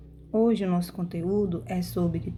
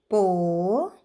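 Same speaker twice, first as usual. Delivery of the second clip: syllable by syllable; 4 semitones lower than usual. Shown as a demonstration. Teacher counting out syllables for pupils, "Po-si-vel" said piece by piece. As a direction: break "Po-si-vel" apart, pausing after each syllable. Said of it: "possível tem três sílabas".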